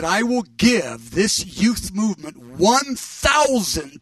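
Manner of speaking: slow, emphatic proclamation; prophetic declaration. Retold or imitated. Friend passing on the Lord's word, solemn prophetic declaration. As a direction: declare it slowly, weighting each word.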